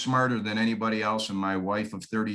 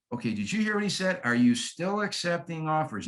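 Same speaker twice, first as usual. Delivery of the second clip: lightly acted homeowner, pitched higher; higher voice, puzzling it out; intrigued homeowner; 4 semitones higher than usual. Homeowner to spouse replaying the voicemail, lightly acted intrigue.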